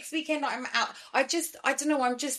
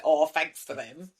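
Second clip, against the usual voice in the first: slow, dry sarcastic thanks; 4 semitones lower, slower than usual. Retold or imitated. Mocking her reply to the doctors, sarcastic. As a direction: drag out fake gratitude. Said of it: "I was like".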